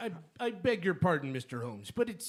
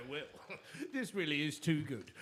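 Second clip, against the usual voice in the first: mocking laughter. Chetwood mocking Holmes about the card, laughing. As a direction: laugh it off scornfully.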